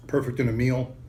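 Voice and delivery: talking through a mouthful; words round a bite of food; mouth full. Real, not acted. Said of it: "Sorry, talking my mouth full".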